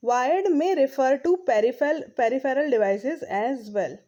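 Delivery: reading the English text aloud, very slowly; slow textbook reading. Acted. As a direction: read each phrase out deliberately for the class. Reads textbook line slowly. (धीमी गति से पाठ पढ़ना)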